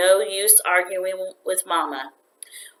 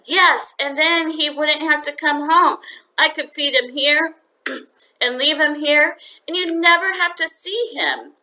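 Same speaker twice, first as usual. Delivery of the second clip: put-on a boy's higher, hurried pleading; lightly voiced eager boy; 8 semitones higher than usual. A narrator's reading. Boy begging his mother to keep the cricket, eager. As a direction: talk fast to win the argument.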